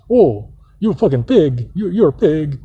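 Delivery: imitating scolding aunt. Aunt scolding nephew over his plate, mock angry nagging. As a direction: mimic her nagging with some heat. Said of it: "this motherfucker, like".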